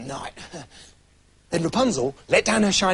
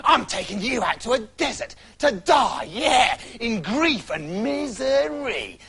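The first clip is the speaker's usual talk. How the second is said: higher witch voice, jeering; mock the bald girl with glee; the witch taunts Rapunzel; gloating angry witch; 3 semitones higher, slower than usual. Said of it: "wild with anger".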